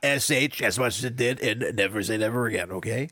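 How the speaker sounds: wrestler promo voice, pushed a touch; Ric Flair impression. Film reviewer rating sex appeal as Ric Flair, mock promo. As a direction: cut a promo like a pro wrestler. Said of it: "I slipped Ric Flair into that".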